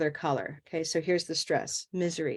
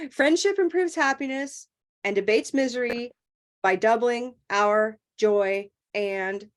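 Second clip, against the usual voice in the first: overdone pausing; 3 semitones higher than usual. Shown as a demonstration. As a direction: break it up too much, slowing word by word. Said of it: "we don't talk like that either".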